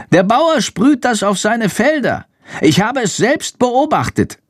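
high squeaky creature voice; bat voice. A narrator's reading. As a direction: explain in a small high bat voice. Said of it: "erklärt Chandor".

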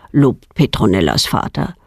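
ordinary delivery, nothing marked

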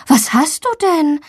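gentle, worried question. A narrator's reading. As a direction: ask anxiously after your sick child. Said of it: "fragt ihre Mama besorgt".

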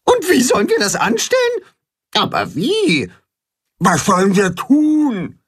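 high anxious animal voices; worried clamour; worried calls. A narrator's reading. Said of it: "Alle rufen durcheinander".

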